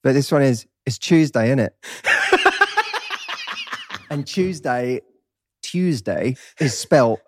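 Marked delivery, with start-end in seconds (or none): 0.9-1.7 Cockney, Tuesday said as "chews-day"; British Cockney accent. Shown as a demonstration. East Londoner reading a meme aloud, in Cockney. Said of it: "you have to know British accents for this one". 4.3-6.4 Tuesday begun with a "ch" sound; "chew" in Tuesday. Shown as a demonstration. British guest explaining meme spelling, Tuesday as "chews-day". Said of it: "with chew, C H E W".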